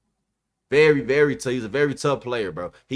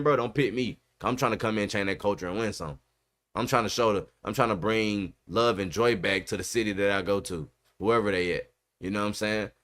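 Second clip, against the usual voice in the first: lightly voiced young quarterback, soft and lowered; imitating Shedeur; 5 semitones lower, 3 dB quieter than usual. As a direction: lower and softer mock Shedeur voice. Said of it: "Talk like that, bro".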